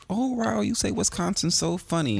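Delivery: high-pitched imitation of white girls; high, gushing white-girl voice; mock white girls. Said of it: "the white girls would be like".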